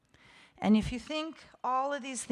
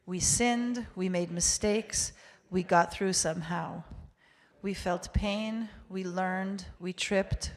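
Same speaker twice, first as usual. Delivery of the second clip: measured litany in short, separate phrases; congregational recitation. Real, not acted. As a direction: lead a group reading, steady and even. Leads congregation reading English confession.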